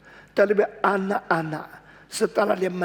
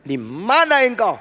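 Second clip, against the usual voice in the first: stern call; 4 semitones higher, 4 dB louder than usual. Retold or imitated. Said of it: "Tuhan bilang".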